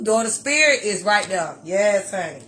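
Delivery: choked up. Real, not acted. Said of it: "you gonna get me started again".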